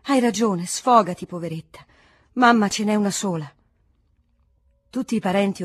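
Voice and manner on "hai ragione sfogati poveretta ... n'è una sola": louder, emphatic consoling outburst; exclaiming. Acted. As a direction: comfort her with a raised, insistent voice. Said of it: "esclamò". (esclamazione consolatoria a voce alta)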